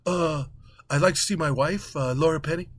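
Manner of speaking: vague stammering husband; dazed Matt Damon. Retold or imitated. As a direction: mumble it, hesitating. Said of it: "he says".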